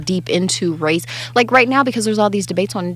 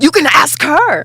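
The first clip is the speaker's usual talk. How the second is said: higher, drawn-out British panic; panicky British accent; 7 semitones higher, 4 dB louder, slower than usual. Retold or imitated. British speaker freaking out and pointing to a veiled woman, panicky British accent. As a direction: put on a flustered British accent. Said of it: "So that was my British accent".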